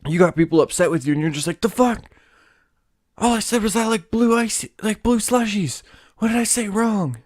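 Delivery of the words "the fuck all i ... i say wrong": baffled guy. Retold or imitated. Acting out the confused guy.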